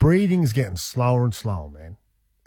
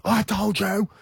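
higher, mocking wife impression; a teasing take on his wife scolding; mimicking wife; 8 semitones higher than usual. Husband mimics his wife scolding him, higher and mocking. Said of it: "Kara's like".

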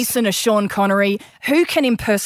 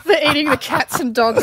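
higher, put-on Trump voice; Trump impression; 8 semitones higher than usual. Premier opens with his Trump bit. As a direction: do Trump, pitched up. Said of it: "the impersonation of Trump".

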